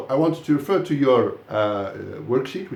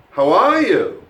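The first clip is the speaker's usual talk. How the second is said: "are" punched high and loud, then falling; how ARE you, with the peak on "are"; stress on "are"; 5 semitones higher, 8 dB louder, slower than usual. Shown as a demonstration. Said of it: "say it to you now in three different ways".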